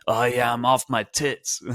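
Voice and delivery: put-on playful British-accent quote; British voices. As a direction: imitate a British panelist for laughs. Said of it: "all those British voices".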